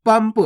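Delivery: पंप with lips closed on an m before the final p; आधा म उच्चारण. Shown as a demonstration. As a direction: hum the m straight into p in पंप. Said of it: "आधा माँ का उच्चारण हुआ". (पंप, आधा म बोलकर)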